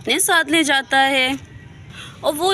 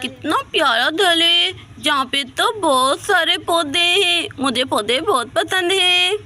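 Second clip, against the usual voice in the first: put-on higher, bright little girl voice, delighted; delighted childlike girl; 4 semitones higher than usual. Little girl admiring Shahzad's house, higher and childlike. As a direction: gush like a small child seeing a lovely house.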